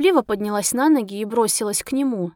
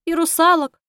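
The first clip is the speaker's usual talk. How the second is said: tearful sob, pitched up and louder; sobbing; 6 semitones higher, 5 dB louder than usual. A narrator's reading. Heroine sobbing to the taxi driver, tearful. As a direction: sob it out between tears. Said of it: "всхлипнула я".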